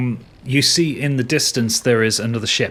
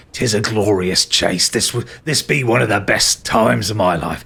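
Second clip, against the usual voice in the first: pirate captain. Acted. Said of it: "he goes".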